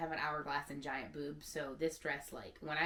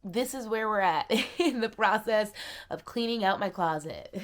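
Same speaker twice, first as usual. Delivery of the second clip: real laugh breaking through tears, loud; 4 semitones higher, 10 dB louder than usual. Real, not acted. Showing her tears to viewers, laughing through crying. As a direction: laugh at yourself while still crying. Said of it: "I don't know why I'm crying".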